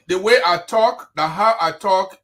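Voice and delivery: "the way I talk" and "the how I talk" hit loudly, with weight; emphatic. Real, not acted. Host defending how he talks to his critics, emphatic. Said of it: "I like to say my things with emphasis".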